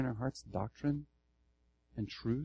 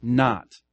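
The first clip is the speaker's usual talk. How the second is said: "Not" set apart and loud; stress on NOT; 6 dB louder than usual. Shown as a demonstration. Pastor answers where else the emphasis falls, "Not" stressed. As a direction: hit "Not" hard as one word. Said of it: "Okay, where else?".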